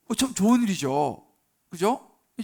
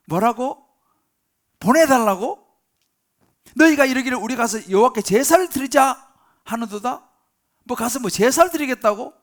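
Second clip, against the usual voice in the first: incredulous anger, louder and higher; 4 semitones higher, 7 dB louder than usual. Acted. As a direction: throw their request back at them, outraged. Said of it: "엄청 화를 내는 거예요". (어이없다는 듯 화내며 크게 되묻기)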